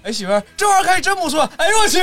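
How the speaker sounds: high, loud, laughing exclamation; mock excitement. Husband calling wife about flowers, excitedly. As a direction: burst out gushing, then blurt 哎呦我去. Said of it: "然后就是".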